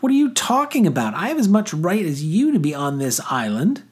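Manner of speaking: high-pitched indignant protest; shrieked indignation. A narrator's reading. Girl disputing the boy's island claim, shrieked indignation. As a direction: argue back in a high voice. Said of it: "she shrieked".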